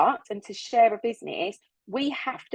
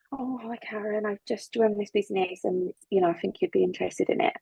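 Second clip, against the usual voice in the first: unenthusiastic pitch; 3 dB quieter than usual. Shown as a demonstration. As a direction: say it dully, with no spark at all. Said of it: "If I go to Karen and go".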